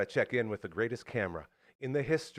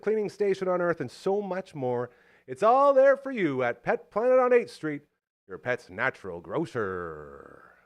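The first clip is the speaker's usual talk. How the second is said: ad read; 2 semitones higher, 4 dB louder than usual. Acted. Host reading the sponsor ad for Pet Planet. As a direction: land the sponsor tagline.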